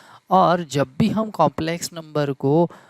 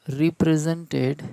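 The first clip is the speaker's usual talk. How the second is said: very slow dictation; much slower than usual. Shown as a demonstration. Teacher dictating to students.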